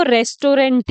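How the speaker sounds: "रेस्टोरेंट" in three full syllables, res-to-rent; wrong pronunciation. Shown as a demonstration. Teacher imitating what many people say, mispronounced "रेस्टोरेंट" as res-to-rent. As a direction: say "रेस्टोरेंट" with clear rent ending. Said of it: "वो गलत हो जाता है".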